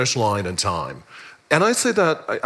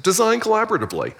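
enthusiastic; 9 semitones higher, much faster than usual. Retold or imitated. Recalls her enthusiastic approval.

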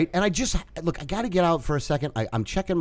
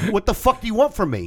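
retold angry challenge; 6 semitones higher than usual. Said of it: "I was seeing red".

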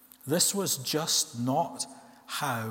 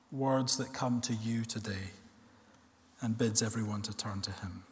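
low, softer, solemn preaching; solemn sermon close; 4 semitones lower, 5 dB quieter than usual. Real, not acted. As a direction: bring the sermon to a quiet, grave close.

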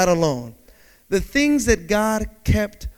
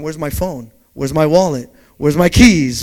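panicked search; 5 semitones lower, 7 dB louder than usual. Retold or imitated. Panicked search for his things.

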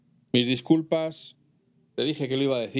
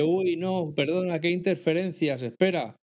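higher, hurried pretend apology over a bad line; fake excuse on the phone; 5 semitones higher than usual. Caller pretending a bad line to dodge the call, higher put-on voice. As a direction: fake an excuse about building-site noise. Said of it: "y automáticamente dice".

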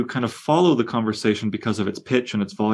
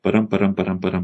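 rhythmic da-DUM chanted with stress on dum; iambic beat; faster than usual. Shown as a demonstration. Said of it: "perfectly iambic".

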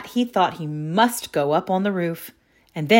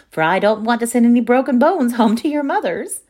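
put-on grandmother calling after the children, louder and higher; 6 semitones higher, 5 dB louder than usual. A narrator's reading. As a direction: raise your voice after them. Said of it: "called Grandmother".

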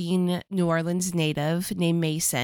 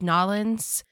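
New Orleans accent; 2 semitones higher than usual. Shown as a demonstration. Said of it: "that's a poor imitation".

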